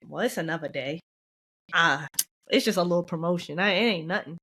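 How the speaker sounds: low, downplayed shrug of a remark; dismissive. Talking yourself out of celebrating a little promotion, dismissive. Mimics downplaying one's own win.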